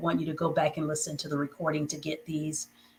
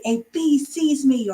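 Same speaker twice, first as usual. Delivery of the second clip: high and louder, bee stressed; excited; 7 semitones higher, 4 dB louder, slower than usual. Shown as a demonstration. Teacher showing an excited sentence with exclamation mark. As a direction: say it like it thrills you. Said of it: "if you're speaking with excitement".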